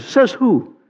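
a hint of New England drawl on "Says who?"; New Hampshire accent. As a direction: imitate the old man's northeastern "Says who?". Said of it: "nice northeastern accent, you know, New Hampshire accent".

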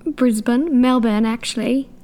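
playful Aussie slipping into British; Australian accent turning British. Pretend. Co-host plays along as an Australian, British-tinged accent. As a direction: answer in a shaky-aimed Australian accent that lands British. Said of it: "that just turned British".

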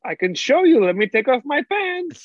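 high, slow, hammed-up German seller; German accent. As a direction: keep up the comic German accent, suggestively. Stays in German seller role.

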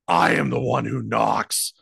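loud, hammed-up menacing declaration; Bryan Cranston. Actor declaring himself to aliens, loud mock menace. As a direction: announce yourself as a threat, loudly. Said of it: "just Bryan Cranston going".

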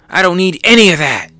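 acted brash retort; Luffy. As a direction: fire back defiantly in a put-on voice. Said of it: "Luffy says".

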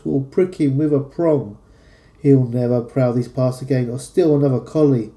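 jolly rhyming verse read aloud with punchy stresses; lively comic verse reading in a London accent; poem recital. Acted.

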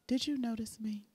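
whispered sultry question; breathy whisper. Pretend. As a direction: whisper it softly to a stranger. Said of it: "in my sexy voice".

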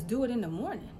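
imitated parent echoing in disbelief; mock-incredulous repeat at everyday pitch. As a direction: throw the words back as a challenge. Parent repeats child's words incredulously.

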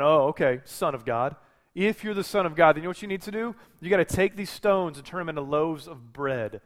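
sneering, needling dare; a hint of a sneering devil taunting Jesus; mocking taunt. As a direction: goad him like a smug tempter. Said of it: "turning them into a taunt".

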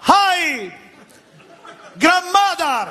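high, bright mock child call; a light imitation of a little girl calling out; child greeting. Daughter greeting grandma in English, lightly mimicked. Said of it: "le fa".

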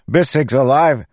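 high, loud call across the room. A narrator's reading. Pete calling to the others about Bissick, high and loud. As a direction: call it out over the chaos. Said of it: "Pete called".

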